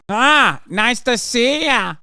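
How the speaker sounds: high, loud, slow mock greeting; lightly hammed-up imitation of DeSantis; mock politician. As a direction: parody his stiff handshake. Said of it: "what are you doing".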